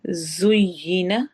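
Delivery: जुय्यिना drawn out slowly with a hissing z; slow recitation. Shown as a demonstration. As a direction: stretch जुय्यिना with a whistling z. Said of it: "सीटी वाले हरूफ में से है".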